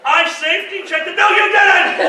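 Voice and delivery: loud, rising back-and-forth yelling; hammed-up shouted bickering; retold argument. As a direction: shout the quarrel out in mock earnest. Acted quarrel, two sides.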